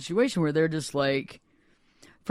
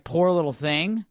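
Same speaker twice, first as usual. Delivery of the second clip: scornful quoting; slower than usual. Acted. Scornfully repeating the pitying phrase.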